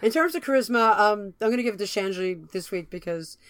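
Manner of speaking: talking through a gravelly voice; rough, gravelly morning-after voice. Real, not acted. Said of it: "I apologize for my gravelly voice here".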